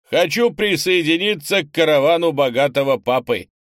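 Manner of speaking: boisterous booming announcement; barked shout. A narrator's reading. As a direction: holler it like a brash big man. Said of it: "гаркнул Пронарий".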